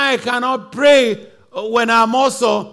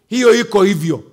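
usual speaking voice

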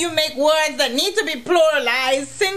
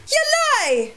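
mock disbelief; 11 semitones higher than usual.

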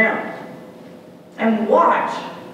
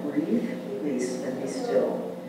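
soft guiding; 5 dB quieter, slower than usual. Shown as a demonstration. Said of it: "guiding breath".

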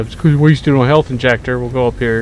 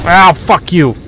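pained angry curse; 6 semitones higher, 5 dB louder, slower than usual. Real, not acted. Hit by enemy.

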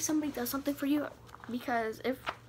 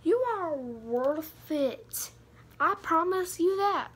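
earnest reassurance; 4 semitones higher, 5 dB louder, much slower than usual. Real, not acted. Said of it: "know your worth".

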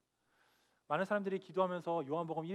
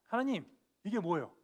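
arguing with God; 3 semitones higher, 4 dB louder than usual. Retold or imitated. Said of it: "하나님께 따졌어요".

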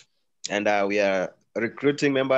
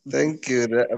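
morning voice. Real, not acted. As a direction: voice roughened by a cold. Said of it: "sounds like your morning voice".

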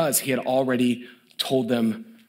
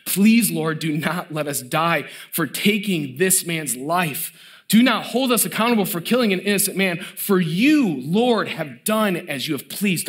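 crying out to God; 3 semitones higher than usual. Retold or imitated. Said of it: "they cry out".

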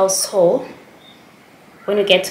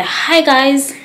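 slightly raised vlogger hello; high-pitched greeting; 5 semitones higher, 3 dB louder than usual. Retold or imitated. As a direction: lightly mimic your own high greeting. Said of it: "like, high-pitched".

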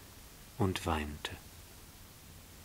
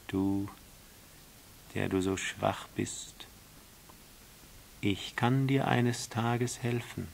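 lightly voiced solemn snake; a hint of a compassionate riddler; snake, pitying.

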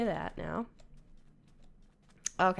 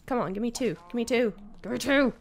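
playful demand, building with each repeat; impatient coaxing that climbs in force; insistent pleading; faster than usual. Real, not acted. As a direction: egg them on, more urgent each time. Coaxing game animals for leather drops.

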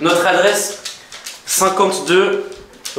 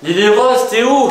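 raised voice calling through the house; 5 semitones higher, 4 dB louder, slower than usual. Acted. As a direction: call her from another room. Searching the house, calling sister.

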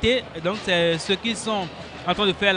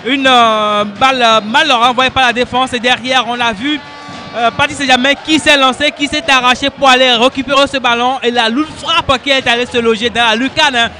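excited sports commentary; 3 semitones higher, 4 dB louder than usual. Real, not acted. Co-commentator reacts to goal.

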